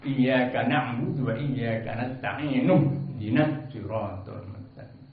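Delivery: slow recitation, no initial i on "Ihdinas"; joined reading. Shown as a demonstration. Teacher explaining the dropped hamza, measured "nasta'inuh-dinas". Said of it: "hamzahnya tidak dibaca".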